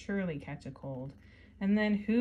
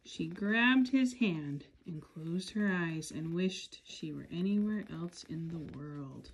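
story narration. Acted. Reading picture book aloud.

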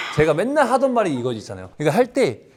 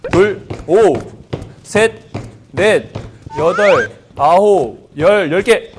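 shouted rep count; 6 dB louder, slower than usual. Real, not acted. Coach counting reps loudly.

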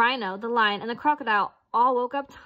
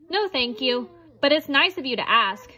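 squeaky with a smile; 3 semitones higher, 4 dB louder than usual. Acted. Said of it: "squeaked back with a smile".

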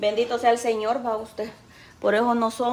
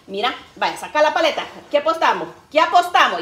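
mother's voice; 3 semitones higher, 6 dB louder than usual. Retold or imitated.

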